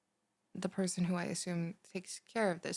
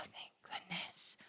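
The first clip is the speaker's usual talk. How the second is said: relieved whisper; 12 dB quieter, much slower than usual. Acted.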